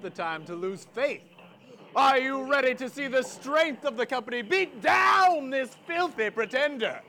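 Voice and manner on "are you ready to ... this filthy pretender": loud crowd-rousing hype; showman shout. Acted. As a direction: pump up the crowd.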